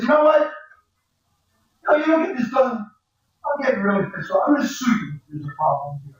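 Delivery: mock-angry client threatening to sue. Accountant to students, voicing an angry client threatening a lawsuit. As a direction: play the fed-up client, pitch pushed up at first.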